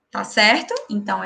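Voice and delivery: usual speaking voice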